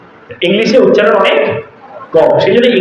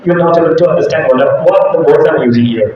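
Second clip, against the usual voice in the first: slow, lower put-on English accent; changed English accent; 5 semitones lower, much slower than usual. Shown as a demonstration. Teacher telling students they can't follow, put-on English accent. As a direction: stay in the altered English accent, measured and low. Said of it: "I have changed it a little bit".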